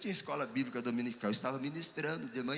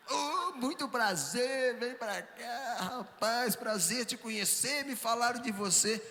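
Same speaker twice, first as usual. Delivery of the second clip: effusive greeting; 9 semitones higher, slower than usual. Retold or imitated. Pastor warmly greets the rough man.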